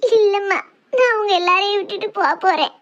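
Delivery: ordinary delivery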